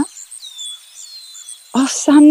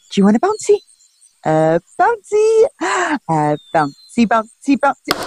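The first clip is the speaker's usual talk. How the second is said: put-on bouncing a baby; 4 semitones lower, 4 dB louder than usual.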